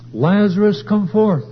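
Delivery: called out high and loud; crying out. Retold or imitated. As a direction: call him out of the tomb. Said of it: "Jesus cried out".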